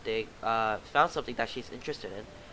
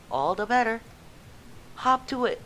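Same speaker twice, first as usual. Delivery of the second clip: high loud officer voice; commanding officer; 7 semitones higher, 4 dB louder than usual. Acted. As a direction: bark the orders. Officer orders recruit.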